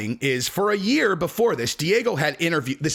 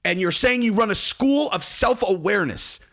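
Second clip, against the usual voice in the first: incredulous; 5 semitones higher than usual. Acted. Incredulous questioning.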